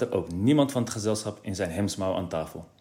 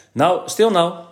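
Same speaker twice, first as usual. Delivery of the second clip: higher, louder father hushing; 8 semitones higher, 7 dB louder, slower than usual. A narrator's reading. Father telling Kees to hush and listen, louder. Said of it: "zei de heer Brummer".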